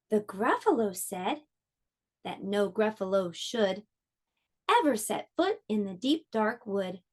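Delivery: gentle storybook reading aloud; reading to children. A narrator's reading. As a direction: read it like story time for little kids. Reads picture book to children.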